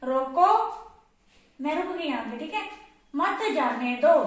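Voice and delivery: "रोको" said alone, then stop; pause after रोको. Shown as a demonstration. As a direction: halt after the word रोको. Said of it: "अब हम इसे कैसे बोलेंगे".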